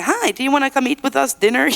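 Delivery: friendly invitation. Retold or imitated. Voices a friendly invitation to neighbors.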